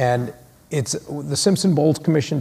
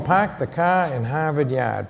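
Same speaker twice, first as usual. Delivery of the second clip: put-on Boston accent. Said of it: "I can remember sitting there going".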